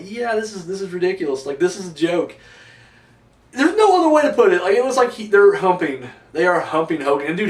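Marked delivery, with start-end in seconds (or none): 0.0-2.4 much softer flat verdict; muttered unimpressed aside; deadpan. Retold or imitated. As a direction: dismiss it with a tired sigh. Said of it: "I was just like".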